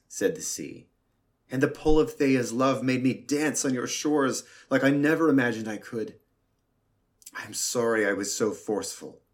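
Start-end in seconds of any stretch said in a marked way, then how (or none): 1.5-9.2 sea character voice. Acted.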